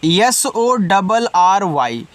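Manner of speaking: slow, deliberate letter-by-letter spelling; teacher spelling letters slowly; spelled out slowly. Shown as a demonstration. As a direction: spell each letter out for the class. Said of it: "spelling out letters slowly".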